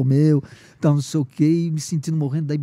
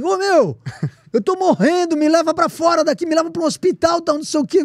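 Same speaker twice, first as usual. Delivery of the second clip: much higher, louder pleading yell; desperate yell; 6 dB louder than usual. Retold or imitated. Begging the inspector to take him to hospital, retold yell. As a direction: beg to be taken out of here, shouting. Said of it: "Dei um maior berro".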